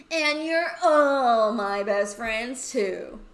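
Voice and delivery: loud, slow, crying confession; teary. Acted. Friend overcome, crying out loud that all are best friends. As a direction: blubber it out through tears.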